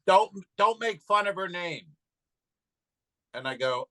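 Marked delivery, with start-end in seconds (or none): 0.1-1.9 higher, indignant imitated telling-off; scolding Karen. Front-row Karen telling off the comic, mock scolding. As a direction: mimic an offended audience member.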